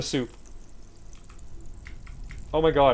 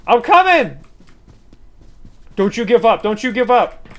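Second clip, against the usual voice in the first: loud, urgent rescue cry; mock heroic; 6 semitones higher, 6 dB louder than usual. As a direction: play the hero rushing in.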